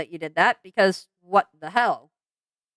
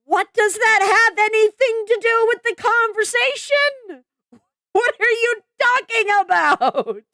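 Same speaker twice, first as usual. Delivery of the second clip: much higher, disbelieving outburst; incredulous; 11 semitones higher than usual. Real, not acted. Calling out the apology's irrelevance in high disbelief. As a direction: ask it in total disbelief.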